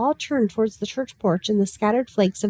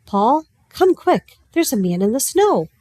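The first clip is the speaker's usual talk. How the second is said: high, loud urgent shout; alarmed call; 4 semitones higher, 4 dB louder than usual. A narrator's reading. Will finds man in snow.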